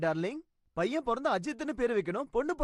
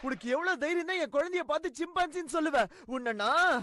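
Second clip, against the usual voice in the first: sharp high shout that stays heated; angry outburst; 3 semitones higher than usual. Acted. Father outraged at kids calling his newborn a chimpanzee, angry shout. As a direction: bark it out, offended and furious at the kids. Father angered by insult to baby.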